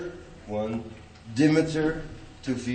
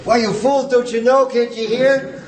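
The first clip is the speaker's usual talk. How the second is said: much higher and louder, bounding anapestic rush; excited speech; 11 semitones higher, 6 dB louder than usual. Shown as a demonstration. Teacher demonstrating excited anapestic speech, high and loud. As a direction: burst out in ecstatic exasperation. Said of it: "That's an excited speech".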